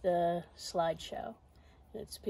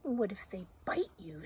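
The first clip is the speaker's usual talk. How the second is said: hushed, whispery question; little doubting voice. Acted. Little voice cautioning Zoe about animals, hushed and doubting. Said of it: "says the voice".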